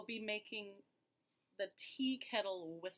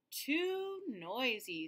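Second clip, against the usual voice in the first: Peter complaining; 4 semitones higher, 3 dB louder, much slower than usual. Acted. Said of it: "said Peter".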